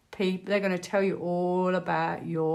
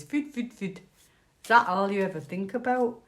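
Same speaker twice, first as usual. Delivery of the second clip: put-on poor Scottish accent. Vlogger quoting Gregory's Girl from memory, poor Scottish accent. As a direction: have a rough go at a Scottish accent. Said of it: "my poor accent of a wee Scot".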